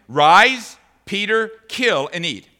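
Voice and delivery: lightly voiced commanding God; a hint of a divine command. Preacher voicing God's command to Peter, lightly. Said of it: "And a voice came to him".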